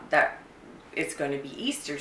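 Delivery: ordinary talk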